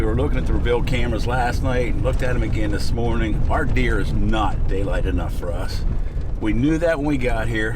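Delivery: talking over road bumps; on a bumpy road. Real, not acted. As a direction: voice jolted by a bumpy ride. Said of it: "Sorry about the bumps".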